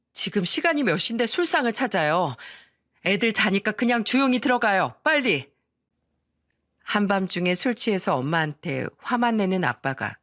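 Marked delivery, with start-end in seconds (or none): 0.1-5.5 mildly exasperated scolding; acted irritated wife, voice a little raised; annoyed wife. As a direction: hush a drunk husband and hurry him inside. Wife scolds drunk husband.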